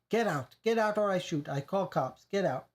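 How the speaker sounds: a hammed-up scared scream, accented. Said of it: "He screamed at me".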